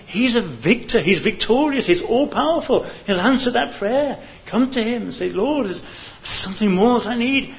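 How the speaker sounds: high, loud pleading appeal; impassioned altar call. Acted. Preacher calling the congregation to believe, loud and high. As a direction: urge them to come to Christ at full force.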